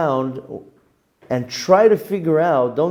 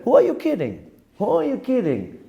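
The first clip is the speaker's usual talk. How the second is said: higher, scolding himself; self-rebuke; 9 semitones higher than usual. Retold or imitated. Man quoting his own method, higher and scolding. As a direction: catch yourself out, pitched up. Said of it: "I used my own method".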